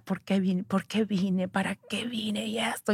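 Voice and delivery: soft sobbing questions, fading to a whisper; mild tearful lament. Retold or imitated. Crying alone in her room, soft and tearful. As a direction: mourn quietly into the blankets. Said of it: "empecé a llorar".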